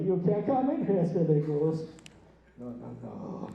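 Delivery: loud mock-smug refusal, sinking to low no-nos; self-important cashier act; smug, put-on accent. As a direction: play a smug gatekeeper with an affected accent. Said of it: "I get smug, I gain an accent".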